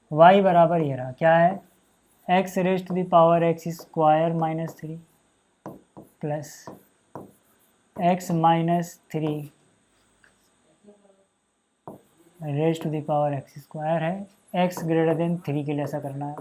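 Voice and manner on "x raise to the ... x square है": very slow, spelled-out dictation pace; very slow board dictation. Shown as a demonstration. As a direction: stretch every term out while writing. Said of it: "teacher dictating slowly".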